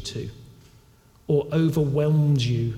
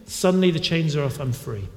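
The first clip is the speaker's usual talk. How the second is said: amazed prisoner; 4 semitones higher than usual. Retold or imitated. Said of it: "he probably can't believe his luck".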